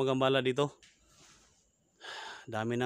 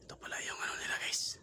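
hushed whisper to viewers; 8 dB quieter than usual. Real, not acted. Whispering to viewers in a haunted house. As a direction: whisper so nothing hears you. Ghost-hunting vlog, hushed narration.

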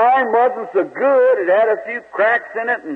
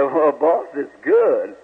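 lower, lightly voiced old slave; old slave Mose; 7 semitones lower, slower than usual. Mose answers the boss, lightly voiced and lower. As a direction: answer the boss low and simple. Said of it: "He said".

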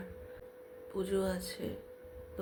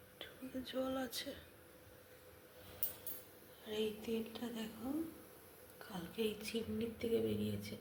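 soft whisper so nobody wakes; 3 semitones higher, 7 dB quieter than usual. Real, not acted. Whispering in the kitchen while family sleeps. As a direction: hush it, just breath. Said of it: "খুব আস্তে আস্তে কথা বলছি".

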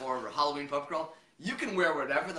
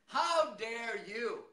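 higher, very slow mock outrage; feigned indignation; 7 semitones higher, much slower than usual. Guest pretending offence to an ally, drawn-out indignation. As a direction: draw it out, grandly affronted.

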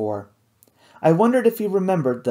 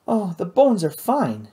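brushing it off, slowly; dismissive; 6 semitones higher, slower than usual. A narrator's reading. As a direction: wave it away, unbothered. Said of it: "she said dismissively".

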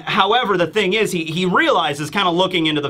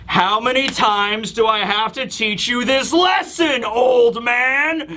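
exasperated scolding; 5 semitones higher, slower than usual. Retold or imitated. Kuma scolds returning enemy.

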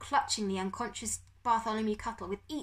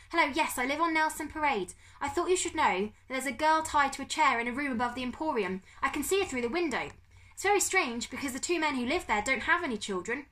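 high, raised, earnest report; put-on caller voice; 6 semitones higher, 4 dB louder than usual. Bertolt reporting tied-up girl to police, high-voiced. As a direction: report it in a pitched-up voice. Boy reporting to emergency operator.

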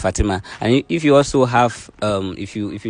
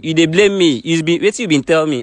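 higher, louder argumentative retort; heated challenge; 7 semitones higher, 4 dB louder than usual. Real, not acted. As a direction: throw the blame straight back. Host argues back at accusing guest.

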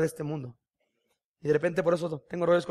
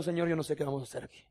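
soft, fast, desperate prayer; quick hushed plea; 2 semitones lower, 7 dB quieter, faster than usual. Retold or imitated. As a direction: pray quietly as if at your limit. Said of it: "llorando a decir". (súplica rápida y en voz baja)

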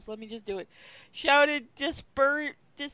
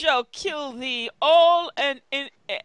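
villain's threat; 2 semitones higher, 7 dB louder than usual. Acted. Villain's threat read aloud.

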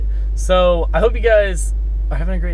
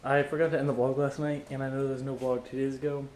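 while brushing teeth; 2 semitones lower, 12 dB quieter than usual. Real, not acted. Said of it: "I'm brushing my teeth".

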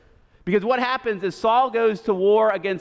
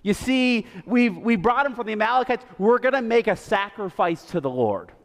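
caught Saul. Retold or imitated. Saul caught red-handed, mildly voiced excuses. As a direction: talk your way out of trouble. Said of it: "He's like".

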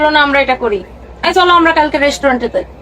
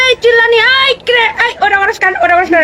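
mock yelling; 6 semitones higher than usual. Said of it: "এরকম করে".

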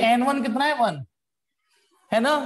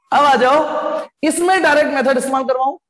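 calling out; 2 semitones higher, 6 dB louder than usual. Real, not acted. Teacher calls class to attention.

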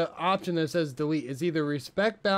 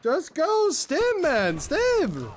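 drawn-out desperate yell, much higher; shouting; 14 semitones higher, 5 dB louder, much slower than usual. Real, not acted. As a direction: yell it across the fight. Frantic callouts mid-fight.

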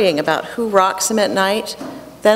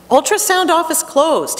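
Russian doctor voice; 9 semitones higher than usual. Retold or imitated.

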